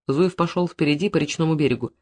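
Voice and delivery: ordinary delivery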